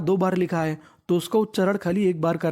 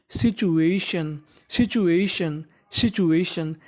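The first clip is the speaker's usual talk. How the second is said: slow pronunciation demo; 2 semitones lower, much slower than usual. Shown as a demonstration. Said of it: "तो meaning बन गई सिचु".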